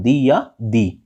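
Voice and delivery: दी said slowly with an "ee" vowel; "the" before vowels. Shown as a demonstration. Teacher showing students the vowel rule, slow "dee" for दी. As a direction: draw out दी as "dee", both times. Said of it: "स्वर के पहले आएगा तो उसे पढ़ेंगे हम".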